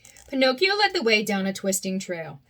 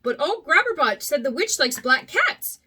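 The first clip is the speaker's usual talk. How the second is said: cried out; 5 semitones higher than usual. Acted. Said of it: "Pinocchio cried".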